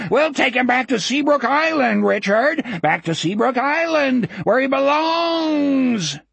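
high, taunting creature voice; gleeful high monster taunt; howling scream. Acted. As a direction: jeer it in a high howl, stretching the end. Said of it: "howling voice from outside screamed".

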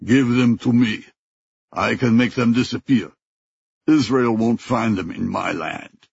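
lightly voiced thick African accent, insistent; a touch of a heavy African accent, pressing the offer. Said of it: "The thick accent repeated".

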